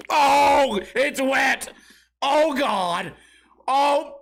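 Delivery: man realizing the fart went wrong; horrified realization. Retold or imitated. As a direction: react as the accident sinks in. Realizing he soiled himself.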